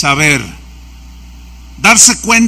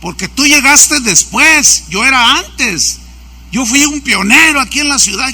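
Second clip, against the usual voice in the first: higher, mock-indignant grievance; imitated jealous pastor; 4 semitones higher than usual. Pastor claims he came first, imitated jealous protest. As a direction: press each claim of seniority like an aggrieved rival. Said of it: "me dan celos y envidia".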